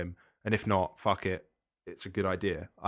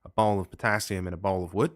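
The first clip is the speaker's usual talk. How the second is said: put-on Australian accent. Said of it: "you were indulging your Australian accent there".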